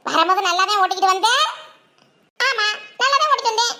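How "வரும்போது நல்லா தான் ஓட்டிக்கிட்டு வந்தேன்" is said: the aunt, slowed down and lower, questioning. Acted. Aunt reacts to punctured cycle.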